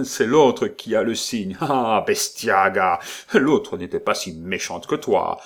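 loud, snarling brute; angry duke. Acted. Duke raging at Justine.

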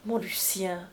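whisper-close endearment to her lover; gentle cajoling murmur; coaxing tender voice. A narrator's reading. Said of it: "d'une voix adorablement câline".

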